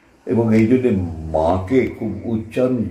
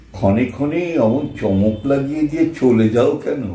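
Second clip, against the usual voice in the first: a line of verse said a bit higher; recited line; 5 semitones higher than usual. Shown as a demonstration. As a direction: recite ক্ষণে ক্ষণে অমন চমক as a line of verse. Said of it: "এই যে শব্দ চয়ন করছি". (কবিতার লাইন আবৃত্তির ঢঙে)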